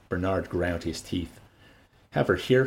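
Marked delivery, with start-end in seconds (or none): 2.1-2.6 bitter. Acted. Bernard's bitter inner rant.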